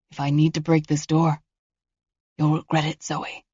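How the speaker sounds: quiet, cold menace; voice of a killer. Acted. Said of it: "His voice changed. Softer. Angrier".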